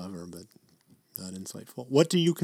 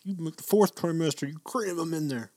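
insistent retold advice; 6 semitones higher than usual. Acts out own insistent advice.

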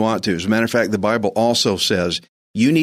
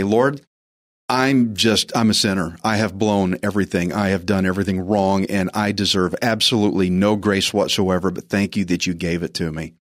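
humble prayer; 3 semitones lower than usual. Pretend. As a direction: model a humble plea to God.

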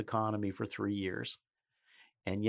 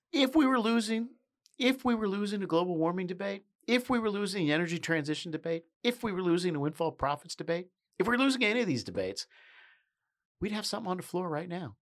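emphatic; 6 semitones higher than usual. Real, not acted. Emphatic building argument.

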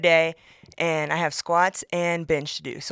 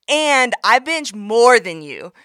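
slow taunt; 5 semitones higher, 8 dB louder, slower than usual. Retold or imitated. Taunting gym guy.

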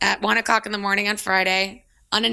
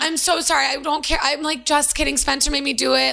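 panicked apology; 5 semitones higher than usual. Retold or imitated. Ray panicking over the prank.

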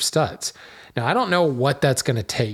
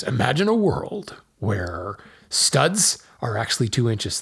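movie trailer voice. Pretend. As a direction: announce it like an epic film trailer. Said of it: "I'm gonna enter my best movie trailer voice".

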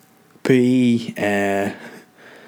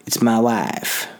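simple wife; much slower than usual. Shown as a demonstration. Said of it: "wife's just a very basic one syllable".

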